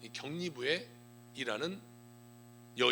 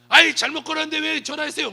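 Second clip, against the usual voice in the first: loud, high-pitched mock scolding; mock irritation; 8 semitones higher, 10 dB louder than usual. Annoyed person answering a repeat wrong call, acted-out loud irritation. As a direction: snap at the caller in pretend annoyance.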